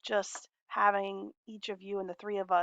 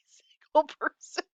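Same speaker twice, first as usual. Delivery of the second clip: whisper; 7 semitones higher, 4 dB louder than usual. Real, not acted. Joking aside after laugh.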